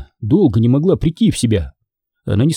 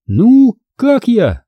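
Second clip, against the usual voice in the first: showing off; 10 semitones higher, 4 dB louder, much slower than usual. A narrator's reading. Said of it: "спросила она, поворачиваясь во все стороны".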